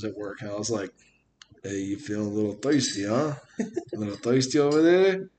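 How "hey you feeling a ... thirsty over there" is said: put-on New York accent. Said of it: "That sounds like New York to me".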